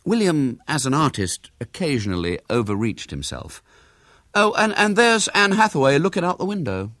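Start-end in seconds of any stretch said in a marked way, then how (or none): 4.3-6.9 put-on high boy's voice, feigning casualness; feigned carelessness. A narrator's reading. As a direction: toss it out as if offhand. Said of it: "he said carelessly".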